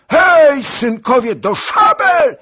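very high, full-force yell to arms; shouted call. A narrator's reading. Princess calling her sons to sabres, high shout. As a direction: scream the order as a battle cry. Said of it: "krzyknęła kniagini".

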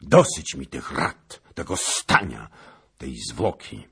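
fiery, high, impatient royal tirade; shouted. A narrator's reading. King fed up with counsels and delay, shouted. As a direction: shout down all delay and command the march. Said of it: "krzyknął".

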